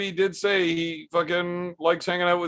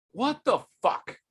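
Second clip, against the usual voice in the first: baffled; 8 semitones higher, slower than usual. Real, not acted. Baffled again by the same message.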